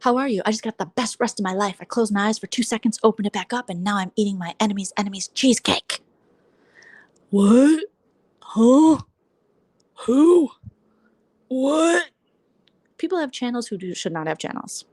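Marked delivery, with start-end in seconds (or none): 0.0-6.0 mocking quote. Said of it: "I love how they're like". 7.3-12.1 mock confusion.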